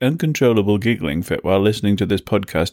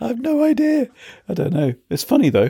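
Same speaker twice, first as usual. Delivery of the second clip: very high, giggly speech through laughter; 12 semitones higher than usual. Answering why they are laughing, laughing while talking. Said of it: "Why are you laughing?".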